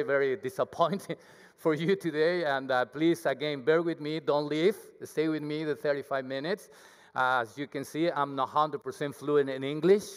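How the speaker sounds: ordinary talk, nothing marked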